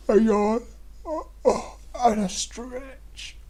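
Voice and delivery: words squeezed out high mid-stretch. Shown as a demonstration. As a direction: talk high while stretching. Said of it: "Let's have a yawn and a stretch".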